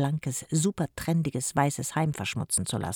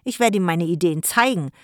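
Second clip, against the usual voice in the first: put-on threatening boy; 3 semitones higher, 5 dB louder than usual. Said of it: "drohte Mikko".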